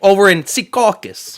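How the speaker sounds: drawn-out fake New Jersey accent; put-on Jersey accent. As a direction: lay on a mock Jersey accent, taking it slow. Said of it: "talk with this make-believe accent".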